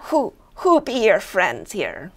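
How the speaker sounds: lightly hammed-up goblin pirate; affected pirate. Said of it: "he puts on an affectation".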